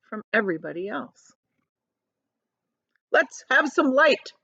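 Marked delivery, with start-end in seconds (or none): 3.1-4.3 slow, raised call for light; shouted. Acted. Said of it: "shouted the centipede".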